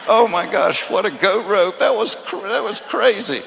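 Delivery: loud, high laughing exclamation; laughing buddy. Retold or imitated. Buddy laughing on the drive back to Atlanta, loud and high. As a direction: crack up like the buddy on the ride home. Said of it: "my buddy just kept laughing".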